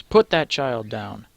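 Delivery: slow, firm command; a stranger demands he put the child down; demanding. Acted. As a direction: order the thug to drop the child. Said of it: "a voice demands".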